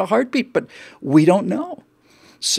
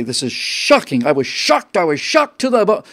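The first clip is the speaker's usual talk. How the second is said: mock shocked. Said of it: "you acted shocked".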